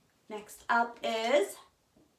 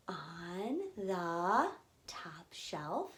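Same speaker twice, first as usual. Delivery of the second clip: whispered hint; 6 semitones lower, 8 dB quieter, much slower than usual. Acted.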